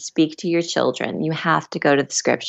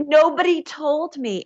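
mock dismay; 10 semitones higher than usual. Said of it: "And I was like".

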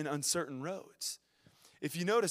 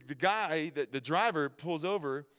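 ordinary talk

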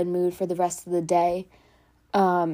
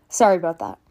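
laughing; 2 semitones lower, 3 dB louder, faster than usual. Real, not acted. Laughing apology over mother's yelling.

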